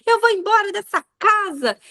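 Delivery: put-on high-pitched baby talk with T sounds; toddler baby talk. Mom imitating her daughter's tantrum, defiant toddler baby talk. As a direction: imitate a little girl stubbornly threatening to leave. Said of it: "ela fala tudo com T".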